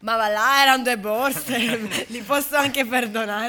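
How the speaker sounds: loud, booming saintly pronouncement; saint's booming voice. Acted. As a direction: boom it out like a saint from above. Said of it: "San Marco è sceso e ha detto".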